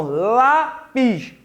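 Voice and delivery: "lápis" slowly, with a long "lá" and a detached "pis"; "lápis" stretched on its first syllable; stress on first syllable. Shown as a demonstration. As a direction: sound out "lápis" to reveal the strong "lá". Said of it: "Mas pronuncie para descobrir".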